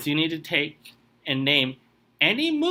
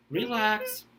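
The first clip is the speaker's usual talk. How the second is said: soothing; 6 semitones higher, 4 dB quieter than usual. Shown as a demonstration. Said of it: "take a breath".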